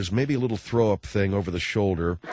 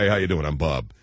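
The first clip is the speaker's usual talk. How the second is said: macho guy voice; 6 semitones lower, faster than usual. Retold or imitated. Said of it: "when I finally talked to one".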